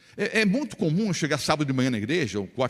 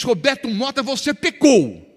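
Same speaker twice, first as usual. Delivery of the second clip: Holy Spirit voice; 6 semitones higher, 7 dB louder, slower than usual. Acted. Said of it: "o Espírito Santo vem e diz".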